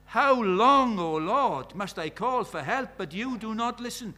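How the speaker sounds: loud desperate plea to God; crying out. Acted. Prophet crying out to God in desperation, loud. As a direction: cry it out, pleading. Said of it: "he cries out".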